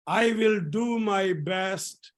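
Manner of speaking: slow, drawn-out model line; mantra call. Shown as a demonstration. Teacher giving a morning mantra to the class, slow deliberate call. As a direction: space the words out for repeating. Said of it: "repeat after me".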